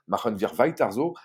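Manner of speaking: put-on German catchphrase in a French accent. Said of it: "désolé pour mon accent allemand". (allemand prononcé à la française)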